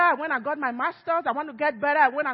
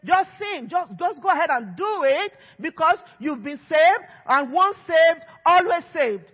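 mock careless preaching; 5 dB louder than usual. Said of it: "the grace message in some places says".

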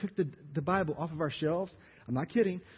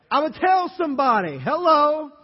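higher, louder cry of the healed man; excited shout; 8 semitones higher, 11 dB louder than usual. Acted. Healed blind man shouting to everyone, loud and excited. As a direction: shout it out like you just got your sight.

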